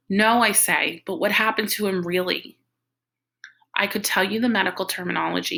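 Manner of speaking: expressive read-aloud of a novel; story narration. Acted. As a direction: tell the story in character, with lively dialogue. Reads a novel chapter aloud.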